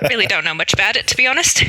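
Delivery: put-on Irish, evasive; Irish accent. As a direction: brush off questions in an Irish accent. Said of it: "do my best Irish accent".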